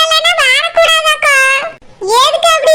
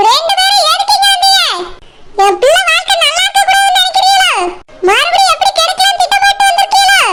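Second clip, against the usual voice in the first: higher, shouting accusations; furious, rising yell; angry shout; 3 semitones higher, faster than usual. Acted. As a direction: lash out at the unwanted guests. Sister confronts uninvited relatives.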